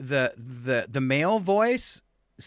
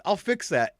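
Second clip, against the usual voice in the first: lightly imitated AI girl, higher; snotty young assistant; 5 semitones higher than usual. Alexa promises the user a fix, lightly mimicked snotty voice. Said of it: "like a snotty twenty-something girl talking".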